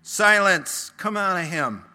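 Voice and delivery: loud, sharp order; stern command. A narrator's reading. Jesus commanding the demon to leave, loud stern order. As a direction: cut him off with a command. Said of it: "Jesus ordered".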